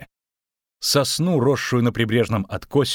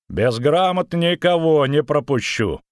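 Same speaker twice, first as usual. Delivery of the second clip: stern, slow, raised refusal; frowning; 6 semitones higher, 4 dB louder, slower than usual. A narrator's reading. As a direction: refuse it with a scowl. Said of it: "нахмурился десятник".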